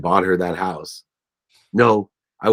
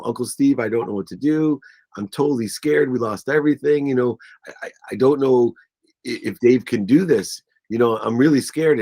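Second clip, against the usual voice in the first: higher, imitating a worried wife; mildly acted scared confession; retold tearful fear; 4 semitones higher than usual. Wife confides in uncle about losing everything, retold fear. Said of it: "She's crying to".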